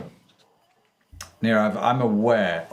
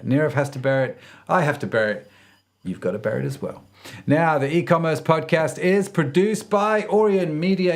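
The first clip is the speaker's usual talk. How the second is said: animated presenter sign-off, lilting pitch; podcast outro; 5 semitones higher than usual. Acted. Host thanks listeners and reads credits, lively podcast outro. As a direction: send the listeners off with upbeat emphasis.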